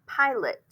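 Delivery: PILOT said alone as PIE-lit; careful PIE-lit, falling at the end; schwa pronunciation. Shown as a demonstration. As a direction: model PILOT with a short, weak second vowel. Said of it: "It could sound like".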